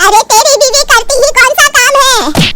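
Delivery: slow, high indignant jab; angry retort. Acted. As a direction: spit it out slowly, offended. Mother-in-law snaps.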